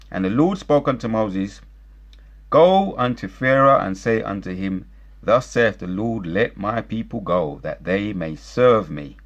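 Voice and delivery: measured, emphatic Bible reading; scripture reading. Acted. Commentator reading Exodus to listeners, solemn scripture reading. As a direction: proclaim the verse phrase by phrase.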